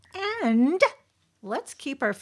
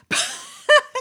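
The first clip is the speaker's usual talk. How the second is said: loud, high burst of laughter; big high laugh; 9 dB louder than usual. Real, not acted. Laughs at harsh review.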